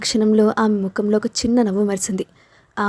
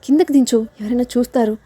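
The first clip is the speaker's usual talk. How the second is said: laughing, flustered; 3 semitones higher than usual. Acted. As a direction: giggle while nervously begging to be put down. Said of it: "నవ్వుతూనే కంగారు పడింది". (నవ్వుతూ కంగారుగా)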